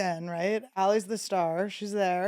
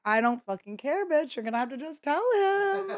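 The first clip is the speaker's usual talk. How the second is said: mock pushy demand; 7 semitones higher than usual. Retold pushy demand to Allie.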